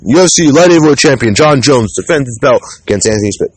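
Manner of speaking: a hint of a big-event ring announcer; announcer impression. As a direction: call it like the commentators introducing the main event. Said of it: "the commentators, Jon Anik, Joe Rogan".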